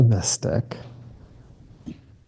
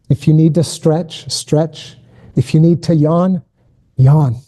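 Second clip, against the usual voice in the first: slow, gentle prayer-leader voice; closing a meditation, unhurried and gentle; guided prayer. Acted.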